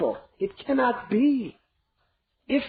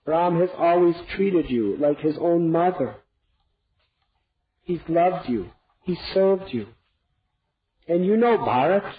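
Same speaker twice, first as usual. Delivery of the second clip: much higher, anguished imploring; desperate pleading; 6 semitones higher, 3 dB louder than usual. Acted. King to queen, desperate imploring. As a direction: plead and rebuke her at once.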